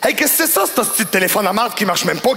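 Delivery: hint of a rude Québécois customer, high and rough; a touch of a gruff customer. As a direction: play the angry client sneering at the clerk. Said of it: "il me dit".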